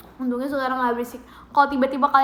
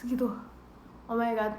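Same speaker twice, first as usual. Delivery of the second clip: ordinary delivery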